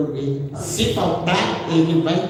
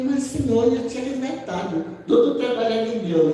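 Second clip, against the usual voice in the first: higher, earnest plea to the Lord; pleading prayer; 5 semitones higher than usual. Retold or imitated. Praying to the Lord about the refund, high and earnest. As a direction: lift it up as a surprised prayer. Retelling her prayer to God.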